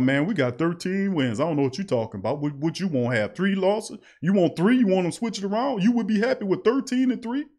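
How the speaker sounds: high, mock-indignant fan voice, pitch climbing up; lightly voiced fan scoffing at the fuss over thirteen and three. Host mocks happy fans with a high, scoffing voice. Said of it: "People are happy about".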